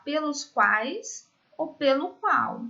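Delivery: "pelos quais" stretched out slowly; slow emphasis. Shown as a demonstration. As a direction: spell out the substitute words slowly. ("pelos quais" dito bem devagar)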